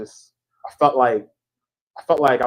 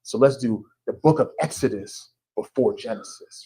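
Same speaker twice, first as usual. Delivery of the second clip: lightly voiced self-important thinker, softer; a hint of pompous wisdom, softer; mock deep thinker; 3 semitones lower, 4 dB quieter than usual. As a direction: play it like a would-be profound writer. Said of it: "I thought I was being deep".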